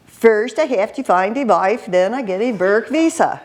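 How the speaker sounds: imitating a Swedish-accented English speaker; mock Swedish lilt on English; light Swedish accent impression. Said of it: "speaking English with a Swedish accent".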